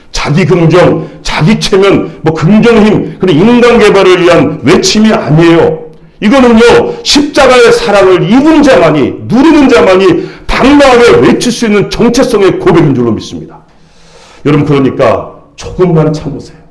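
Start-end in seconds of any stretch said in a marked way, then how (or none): 6.2-13.6 high-pitched, urgent sermon delivery; impassioned preacher in full flow; full-force preaching. Real, not acted. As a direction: press every phrase home to the congregation.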